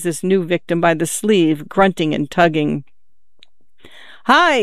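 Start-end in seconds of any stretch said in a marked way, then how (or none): 4.2-4.6 father shouting as the dog attacks. A narrator's reading. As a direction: cry out as the dog grabs your sleeve. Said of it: "he shouted".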